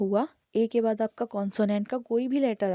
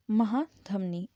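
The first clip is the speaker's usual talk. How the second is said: slow gloss; much slower than usual. Shown as a demonstration. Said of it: "translates the word".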